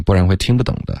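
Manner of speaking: ordinary delivery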